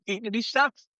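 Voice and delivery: giggling through the words; amused laughing repeat. Real, not acted. Laughing repeat of snack story.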